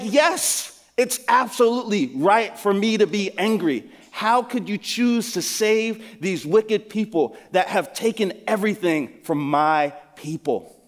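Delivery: a prophet protesting God's mercy, indignant; Jonah's defiant anger. Acted. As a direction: insist it is right to be angry. Preacher voices Jonah defiant.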